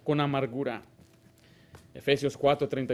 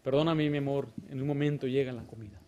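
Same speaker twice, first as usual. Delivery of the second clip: gentle soft answer; 2 semitones lower, 3 dB quieter than usual. Retold or imitated. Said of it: "con una blanda respuesta".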